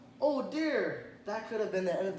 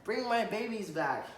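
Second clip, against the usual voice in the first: mother duck crying out; 5 semitones higher than usual. Acted. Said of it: "she cried".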